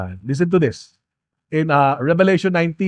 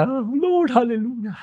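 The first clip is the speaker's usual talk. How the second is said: high, soft worshipful cry; imitating hushed heavenly worship; awed worshipper; 5 semitones higher, 3 dB quieter than usual. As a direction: softly act out a worshipper lifted in praise. Acts out worshippers greeting in heaven.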